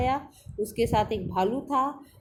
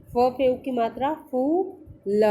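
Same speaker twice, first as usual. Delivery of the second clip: spelling drill; 4 dB louder, slower than usual. Shown as a demonstration. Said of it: "पीछे पीछे मेरे दोहराएंगे".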